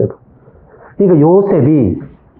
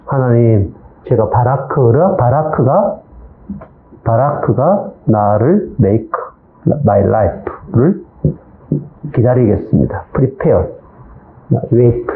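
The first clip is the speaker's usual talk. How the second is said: trusting prayer; 2 semitones lower, slower than usual. Retold or imitated. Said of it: "이렇게 바뀌었겠죠?".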